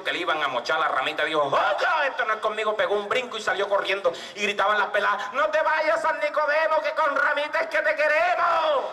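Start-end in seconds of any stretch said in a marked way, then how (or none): 1.4-2.7 mock panic. Chifla panics and runs off. 5.3-8.9 high shouted plea; girls calling out. Acted. Village girls shouting after the fleeing saint, high and pleading.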